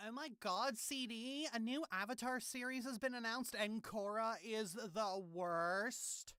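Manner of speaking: put-on high, soft gossipy girl; gossip voice. Shown as a demonstration. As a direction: gush like a gossiping teen. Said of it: "Got the gossip voice down so well".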